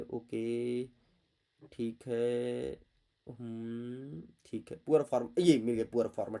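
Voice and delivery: low, soft searching mumble; quiet muttering while hunting for a word; muttering to himself. Real, not acted. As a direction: mumble under the breath while scanning the text.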